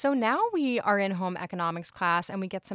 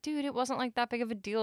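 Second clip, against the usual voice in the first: lightly raised, casual protest; playing it off; 4 semitones higher, 3 dB quieter than usual. Eddie to his friend, minimizing, playing it off. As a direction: shrug it off, a touch defensive. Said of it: "kinda try to, like, play it off".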